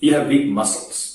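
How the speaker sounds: muscles said so it sounds like mussels.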